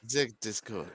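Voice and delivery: light French "ze" on "Discord"; mock French accent. Co-host echoing the host, mock French accent. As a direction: echo it in a playful French accent. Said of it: "we have gone French".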